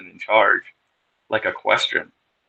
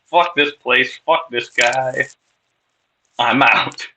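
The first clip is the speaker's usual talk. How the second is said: furious but half-joking; fuming at the abbot, storming out in mild mock anger; 3 semitones higher than usual. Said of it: "even more furious".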